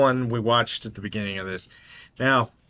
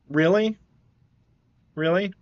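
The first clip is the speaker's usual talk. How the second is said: incredulous; 7 semitones higher than usual. Real, not acted. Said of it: "reacting in disbelief".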